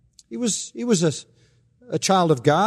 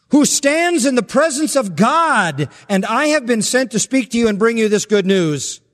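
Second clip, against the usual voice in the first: booming angel voice; 7 semitones higher than usual. Acted. Preacher voicing Gabriel rebuking the doubting priest, high and grand. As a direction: proclaim it like a mighty archangel.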